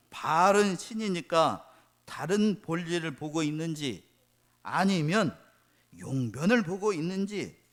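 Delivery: slow, deliberate reading of scripture. Acted. Pastor reading the Bible verse to the congregation, slow and solemn. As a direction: read the verse slowly and weightily.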